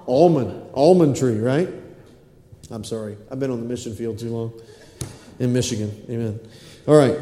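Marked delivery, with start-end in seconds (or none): 0.1-1.4 "Almond" with an open AWL vowel; chosen pronunciation. Shown as a demonstration. Preacher corrects himself to congregation, "Almond" as AWL-mund. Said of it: "Almond or almond?".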